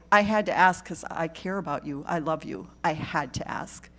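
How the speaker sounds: calm, caring reassurance to someone at risk; gentle reassurance. Shown as a demonstration. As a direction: friend checking in after they answer no. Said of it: "You say".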